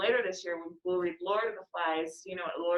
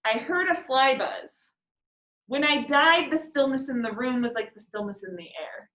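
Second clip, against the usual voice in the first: I heard a fly buzz as its own sentence, then a pause; full stop after buzz; 4 semitones higher than usual. Shown as a demonstration. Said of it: "Or you could say".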